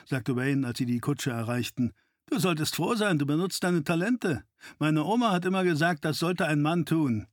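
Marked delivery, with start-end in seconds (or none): 2.3-7.3 lightly voiced sidekick, pitched up; a hint of a cocky partner; cheeky sidekick. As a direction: protest innocence in a higher voice. Narrator voices Wayne.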